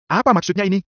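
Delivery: high-pitched puzzled question; confused. A narrator's reading. Levin puzzles over his unexpected martial arts reward, confused. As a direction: raise the pitch in bewilderment. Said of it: "Gumamnya bingung".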